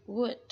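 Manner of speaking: "Wood" said with a short u. Shown as a demonstration. A teacher repeats "Wood" for her student with a short u. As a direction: clip the vowel in "Wood". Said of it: "Hoặc là âm u ngắn".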